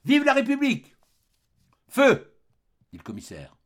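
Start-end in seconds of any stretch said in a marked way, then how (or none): 0.1-0.9 very high, loud last cry; defiant cry. A narrator's reading. Dying old man to the troops, loud high defiant cry. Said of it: "et répéta". 1.9-2.4 very loud, high order to fire; one sharp yell to the soldiers; shouted command. A narrator's reading. Commissioner to his troops, loud high fire command.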